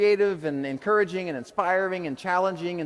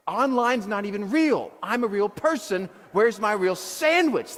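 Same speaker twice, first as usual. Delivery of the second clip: slow indignant demand; mock-furious retold rant; fired up; 5 semitones higher, slower than usual. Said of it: "I'm fired up".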